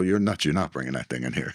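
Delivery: ordinary talk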